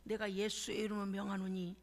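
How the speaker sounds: low, firm command that bursts into a loud shout at the end; low authoritative decree ending in a shout; commanding prayer. Retold or imitated. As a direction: order the wealth to come like an exorcist. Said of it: "이렇게 기도했어요".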